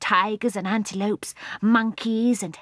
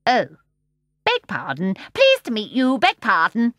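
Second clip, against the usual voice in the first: louder, fawning apology; polite seal; 4 semitones higher, 6 dB louder than usual. A narrator's reading. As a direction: apologize a bit too eagerly. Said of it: "said politely enough".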